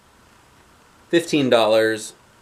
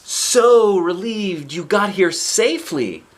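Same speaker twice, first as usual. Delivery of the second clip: grandmother voice; 9 semitones higher, 6 dB louder, slower than usual. Retold or imitated. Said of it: "Looks like a grandmother character".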